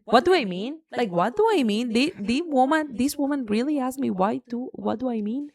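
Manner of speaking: retelling the office clash, incredulous; retold indignation. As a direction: throw their question back at them. Retold angry office argument.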